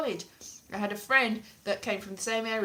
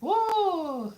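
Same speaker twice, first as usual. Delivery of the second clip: high, loud, drawn-out cry; mock-Welsh dragon; 7 semitones higher, 9 dB louder, much slower than usual. Comic voicing the dragon, loud high mock Welsh. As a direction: bellow it high in bad Welsh. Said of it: "said the dragon".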